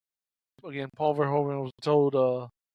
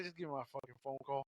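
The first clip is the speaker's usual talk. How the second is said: softer, fast, lower mock growl; low muttered demand; 5 semitones lower, 18 dB quieter, faster than usual. Clarence demanding his phone call, low. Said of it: "he's like".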